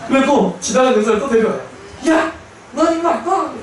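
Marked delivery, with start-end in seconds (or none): 2.1-3.5 high, sharp mock scolding; angry scolding. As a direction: bark at the soldier like an angry officer. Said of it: "화를 내세요". (화내며 꾸짖듯이)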